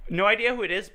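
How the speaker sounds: high, sing-song mocking voice; mocking imitation. Mimics friend's line, mocking pitch.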